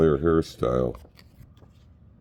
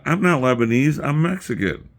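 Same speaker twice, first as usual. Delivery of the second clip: higher, louder retold protest; mock-offended correction; indignant denial; 10 semitones higher, 6 dB louder than usual. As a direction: loudly set them straight, pitched up.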